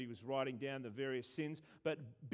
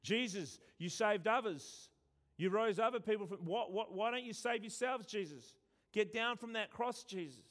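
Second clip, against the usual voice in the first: mildly raised, jeering retold taunt; mocking crowd; 5 semitones higher than usual. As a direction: taunt him lightly, like the crowd at the cross. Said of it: "the people were mocking Jesus".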